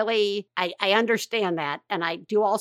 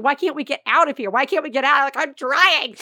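mock distraught plea, louder and higher; retold tearful pleading; 4 semitones higher, 4 dB louder than usual. Mother and crying son stuck in haunted house, mock tearful pleading. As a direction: plead to get out, half-wailing for the story. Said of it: "Ellis is still crying".

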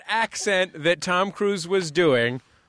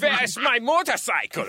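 put-on high-pitched comic German accent; super broad stage-German, pitched up; 6 semitones higher than usual. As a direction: ham up a 1950s movie German. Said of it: "super broad nineteen fifty-two style German accent".

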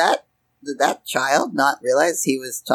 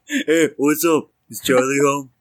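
put-on child voice. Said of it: "seven-year-old you're talking".

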